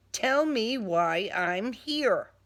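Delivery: slow firm demand. Acted. Angry demand.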